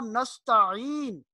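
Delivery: slow نستعین with a throat ع; careful ain. Shown as a demonstration. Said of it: "عین کو حمزہ نہیں پڑھنا". (نستعین میں عین واضح)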